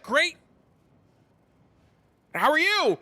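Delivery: fake bro greeting. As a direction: play along as the chummy bro. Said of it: "And I'm like".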